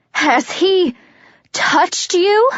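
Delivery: rising from high to very high, pleading. Acted. Warner begs Juliet for the truth, pitch climbing in panic. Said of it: "tighter, higher".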